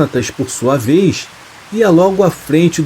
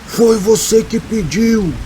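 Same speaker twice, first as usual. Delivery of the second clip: slow, high, hoarse creature voice; 7 semitones higher, slower than usual. A narrator's reading. Unseen thing answers the man's provocation, hoarse and slow. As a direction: rasp it out slowly, pitched up. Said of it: "uma voz rouca que dizia".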